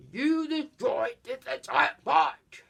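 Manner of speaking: mock scolding ranger.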